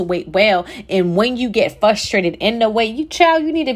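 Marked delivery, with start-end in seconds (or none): 2.9-3.7 fervent exhortation. Real, not acted. Preaching to waiting listeners.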